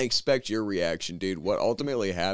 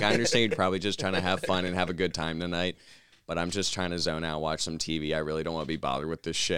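soft, slightly lowered, composed refusal; calm and collected; 4 semitones lower, 3 dB quieter than usual. Retold or imitated. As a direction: imitate someone politely unbothered. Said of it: "he was so collected".

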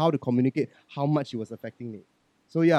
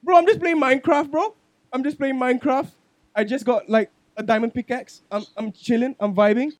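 put-on higher and louder, a whiny defensive kid; whiny teen protest; 10 semitones higher, 7 dB louder than usual. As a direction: whine like a teen dragged away from his game. Voicing his teen self answering mom.

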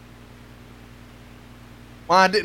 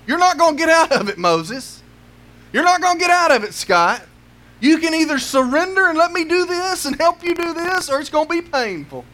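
God pressing the reluctant Moses hard; stern warning; 6 semitones higher than usual. Acted. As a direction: warn him firmly, no way out.

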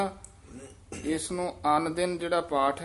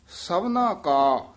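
ਸਭਨਾ ਕਾ said slowly and louder, then a short halt; brief stop after ਕਾ; 3 semitones higher, 6 dB louder, much slower than usual. Shown as a demonstration. Teacher showing the brief halt, slow and loud. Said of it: "ਇੱਥੇ ਠਮਕ ਲਾ ਦੇਣੀ ਹੈ".

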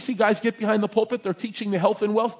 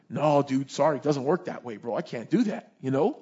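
lower, laid-back apologetic no; casual refusal; 5 semitones lower than usual. Acted. Prophet turning down the king's money, casual. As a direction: let him down easy, pitched low.

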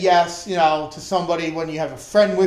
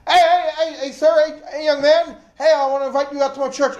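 higher, brighter calling out, hey hey hey; 5 semitones higher than usual. Retold or imitated. The preacher hailing a young soldier outside the PX, calling out. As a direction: hail a stranger from across the lot.

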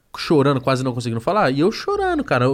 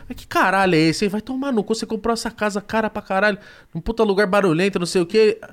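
mock angry complaint; 5 semitones higher than usual. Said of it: "brigando com a mulher dele".

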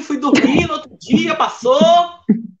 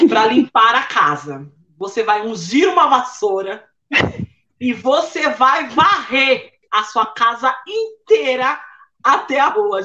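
lower, firm, deliberate mom; instructing mother; 3 semitones lower than usual. Retold or imitated. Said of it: "a mamãe falou".

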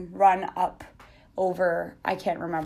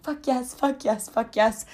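triumphant yell; 5 semitones higher than usual. Retold or imitated. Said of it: "I pull a full-on Shalane Flanagan".

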